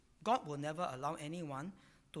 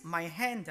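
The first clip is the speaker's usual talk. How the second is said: "my hand" said louder, as a firm unit; emphatic; 5 dB louder than usual. Shown as a demonstration. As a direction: stress the phrase "my hand". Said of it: "in Hebrew is emphatic".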